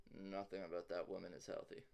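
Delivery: grumbled quietly while walking away; mumbled under breath. Acted. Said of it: "mumbles under his breath".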